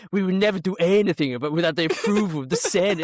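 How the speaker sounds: a quick hint of Trade Federation accent. Co-host quoting film politics in jest, light Trade Federation accent. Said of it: "do the Trade Federation accent".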